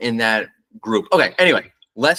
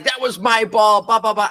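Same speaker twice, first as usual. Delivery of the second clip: mock yelling Karen; 8 semitones higher than usual. Angry fan yelling at the dad over a ball, mock shrill. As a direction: squawk it like a petty entitled fan. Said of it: "starts yelling at the dad".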